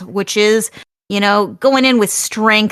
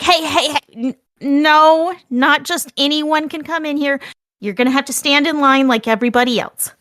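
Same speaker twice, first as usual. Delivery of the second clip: higher, indignant New York counter worker; New York Jersey accent; 3 semitones higher than usual. Acted. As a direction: scold the line-cutter in New York Jersey tones. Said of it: "I don't know why I'm doing that accent".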